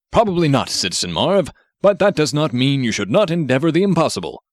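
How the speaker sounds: a hint of a stiff formal hero voice; lightly voiced superhero. Grenade Man instructing Marv from the robot, lightly heroic voice.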